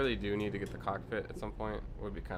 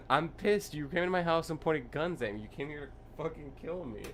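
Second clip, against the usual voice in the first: imitated furious rant, much higher and louder; retold yelling; 7 semitones higher, 3 dB louder than usual. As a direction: rant it like the man yelling at the cops. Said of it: "he was screaming at these cops".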